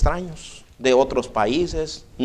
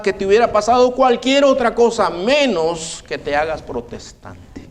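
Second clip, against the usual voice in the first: mother's scorn; 3 semitones higher than usual. Retold or imitated. Mother rejects her son.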